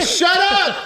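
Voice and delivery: high, mock-irritated snap; retold annoyed yell. Man trying to lie down, telling his noisy friend off, mock-annoyed yell. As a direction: holler it as a retold complaint. Retelling yelling at friend while resting.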